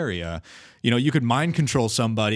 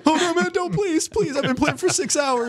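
high, loud mock begging; panicked pleading; 4 dB louder than usual. Victim begging a griefer after six hours' play, mock panic. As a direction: beg for mercy in a squealed, hammed-up panic.

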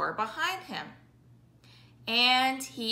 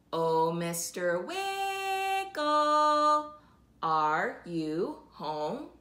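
calling out; slower than usual. Acted. Calling out at friend's door.

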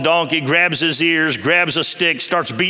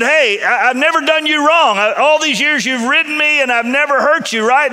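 high, loud donkey voice pleading its case; a loyal animal protesting, voice pushed up high; put-on donkey voice, indignant; talking donkey; 9 semitones higher, 4 dB louder than usual. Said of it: "And so the donkey said".

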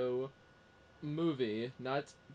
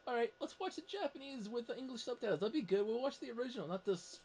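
retold reply; 11 semitones higher than usual. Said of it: "I was like".

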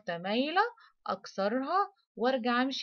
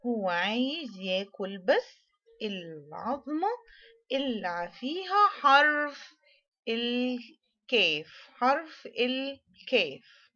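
slow and stretched, swelling louder on اللي فيها حرف الكاف; slow storytelling emphasis; 4 dB louder, slower than usual. Shown as a demonstration. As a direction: draw out the key words like a storybook reveal. Teacher dramatizes a story for kids. (سرد بطيء ومؤكد للأطفال)

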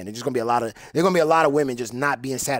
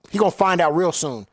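rising, louder threat; louder taunt; 4 dB louder than usual. Real, not acted. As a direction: hype up the taunt. Gamer taunting opponent loudly.

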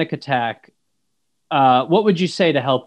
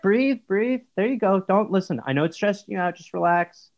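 soft, soothing calming voice; 3 dB quieter than usual. Shown as a demonstration. Son demonstrates to mum how to calm someone, softly. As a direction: soothe a panicking person softly. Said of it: "You just go".

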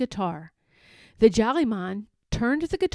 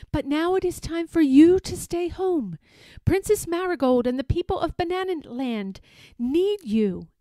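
magical dolphin voice; 6 semitones higher than usual. Acted. Dolphin speaks at length.

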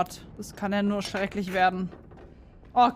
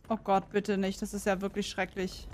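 cursing under breath; 7 dB quieter than usual. Real, not acted. Dread in horror game.

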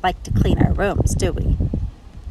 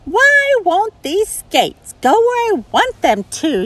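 gurgled; 12 semitones higher, 5 dB louder than usual. Acted. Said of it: "she gurgled".

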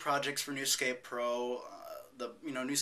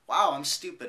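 mock self-scolding; 5 semitones higher, 8 dB louder than usual. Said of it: "I went".

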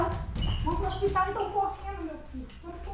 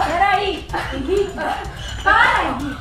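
alarmed yelling; 7 dB louder, slower than usual. Real, not acted. Mother yelling at choking son.

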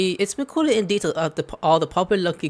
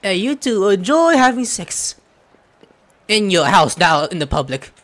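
loud heckling; 3 semitones higher, 8 dB louder than usual. Pretend. Player heckles the couple loudly.

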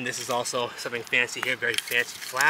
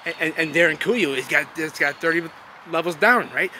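high, loud mock-incredulous challenge; mocking the doubters; 5 semitones higher, 7 dB louder than usual. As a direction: parrot the sceptics in a raised, needling voice. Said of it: "And then they say".

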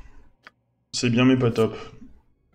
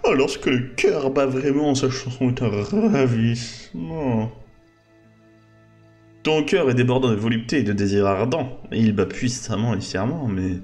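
lyrical declamation; 3 dB louder, slower than usual. Acted. Reading a poetic romance line.

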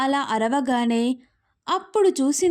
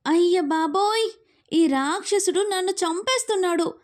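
put-on higher, dramatic wail of a thrown girl; mock cry for help; 4 semitones higher than usual. Girl thrown on the bed wails about the demon, higher dramatic cry. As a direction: cry out as if being murdered. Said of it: "అని అరిచింది".

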